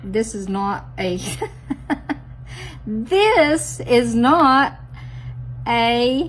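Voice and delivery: slow, loud, laughing disbelief; amused self-scolding laugh; laughing at herself. Real, not acted. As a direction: stretch it out, cracking up at your own blunder. Laughing at own mistake.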